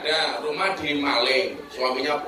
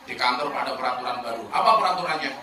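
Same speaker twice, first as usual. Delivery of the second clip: mildly pitiful husband, low and soft; understated plea to the wife; pleading husband; 5 semitones lower, 5 dB quieter than usual. Acted. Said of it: "Suaminya memelas".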